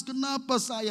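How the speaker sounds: high-pitched imitated wail; retold crying outcry. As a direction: cry out in protest, imitating her tears. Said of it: "waktu saya datang dia nangis". (meniru jeritan tangis)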